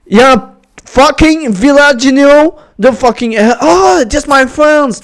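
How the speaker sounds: hammed-up French-accented English; bad English accent. Gamer showing off in English, bad English accent. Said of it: "Mon accent anglais doit être éclaté".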